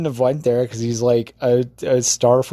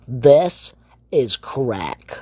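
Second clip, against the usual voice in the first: Pee Wee Herman; much slower than usual. Retold or imitated. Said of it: "he does one hundred percent go".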